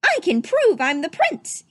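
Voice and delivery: mild shout of proof. Acted. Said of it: "he shouted".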